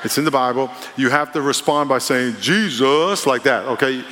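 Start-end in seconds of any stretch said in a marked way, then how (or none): 2.4-3.2 JESUS with a dipping lilt, not flat; call-and-response Jesus with a dip. Shown as a demonstration. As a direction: give "Jesus" a little dip in the tune. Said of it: "You can't say it flat. You gotta have a little dip".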